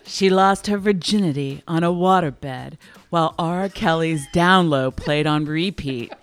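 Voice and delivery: slow, low sultry purr; sexy voice. Pretend. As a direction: seduce the listener slowly. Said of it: "I'm gonna use my sexy voice for this one".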